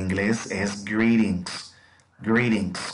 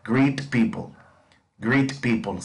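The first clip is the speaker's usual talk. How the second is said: model for repetition. Shown as a demonstration. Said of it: "Repeat after me".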